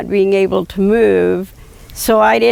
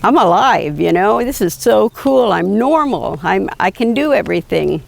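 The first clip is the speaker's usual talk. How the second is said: ecstatic. Retold or imitated. Patient telling his surgeon he feels alive, excited. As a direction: relive the rush of being able to move again. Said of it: "I was so ecstatic".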